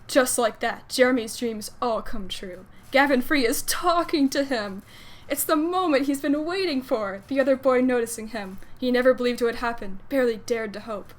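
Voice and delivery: expressive fan fiction read-aloud; lilting storytelling delivery; story narration. A narrator's reading.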